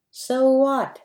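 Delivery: spat. A narrator's reading. Elder brother spits at his pleading younger brother, contemptuous snap. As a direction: spit it back in his face contemptuously. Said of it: "spat the elder".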